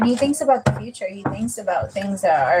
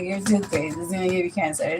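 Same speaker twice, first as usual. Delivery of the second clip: low, soft deadpan warning; flat dead-serious delivery, a touch quieter; aunt staring straight at her, deadly serious; 3 semitones lower, 5 dB quieter than usual. Retold or imitated. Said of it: "looked me dead in the eye".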